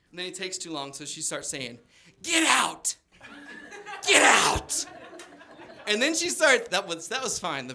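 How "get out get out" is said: high, loud mock yell; hammed-up old lady yelling; grandma yelling. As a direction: shoo him out furiously like a cranky old lady. Grandma turning mad at Jim.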